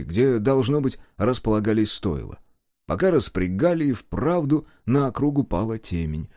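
ordinary delivery

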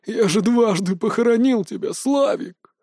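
put-on a touch of tearful old man; grieving relief, lightly voiced; mild sobbing. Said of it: "всхлипывал дед".

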